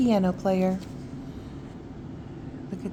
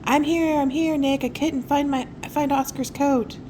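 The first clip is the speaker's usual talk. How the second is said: loud; 7 semitones higher, 6 dB louder than usual. Acted. Ula rushes in loudly.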